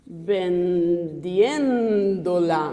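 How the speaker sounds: vendiendo-la spoken very slowly and drawn out; slow Spanish demo. Shown as a demonstration. Teacher modelling the Spanish form slowly for students. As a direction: drag out vendiendo-la syllable by syllable. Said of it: "Vou usar aqui, ó".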